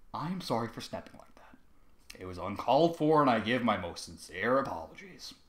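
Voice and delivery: rehearsed flat monotone apology. Acted. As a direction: recite the apology like a robot. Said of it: "He spoke in a very monotone voice".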